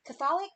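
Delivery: Catholic stressed on the second syllable, questioning; mispronunciation. Shown as a demonstration. Host testing the word, Catholic as kuh-THOL-ick. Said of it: "Is it Catholic or Catholic?".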